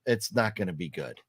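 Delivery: dismayed reaction. Retold or imitated. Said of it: "I'm like".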